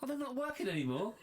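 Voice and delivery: echoey room sound. Real, not acted. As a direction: voice bouncing around a hall. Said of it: "Why do I sound so echoey?".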